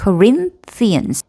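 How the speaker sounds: Corinthians with the RIN stressed and drawn out; stress on second syllable. Shown as a demonstration. Teacher showing learners where Corinthians takes its stress, second-syllable stress. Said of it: "린의 강세를 받죠".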